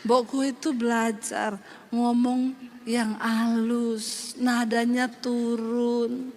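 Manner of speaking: low, slow, soft Solo husband; husband's soft voice. Retold or imitated. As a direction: drag it out gently with a falling tune. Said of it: "Tiap hari dia gitu". (suami Solo bicara lambat, lembut, nada turun)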